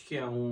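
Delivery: playful spoken pistol-shot sound; imitated gunshot. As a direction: mimic a gun going off, lightly. Mimics pistol firing, distinguishing pistils. (पिस्तौल चलने की नकली आवाज़)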